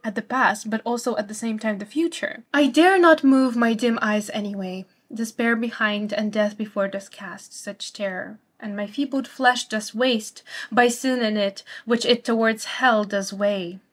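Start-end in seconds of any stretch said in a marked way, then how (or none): 2.6-13.8 poem reading. Shown as a demonstration. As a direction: read the verse with dread and weight. Reads the next quatrain.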